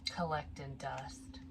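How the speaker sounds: slow hushed whisper; slow whispered joke; whispered aside. Real, not acted. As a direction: let it trail off into a whisper. Joking aside about the owl.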